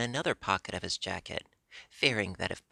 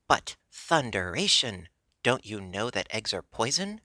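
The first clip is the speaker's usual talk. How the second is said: roar; 2 semitones higher, 4 dB louder than usual. Acted. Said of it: "roared the king".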